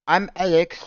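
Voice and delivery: high, loud squealing Alex voice; high mock Alex voice; Alex impression. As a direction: squeal the name like a parody. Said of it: "let me say it like Alex would".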